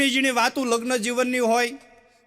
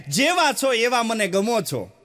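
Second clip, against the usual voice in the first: fond bride-to-be cooing; sweet, slow lover's tone; slower than usual. Retold or imitated. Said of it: "આખો tone અલગ હોય".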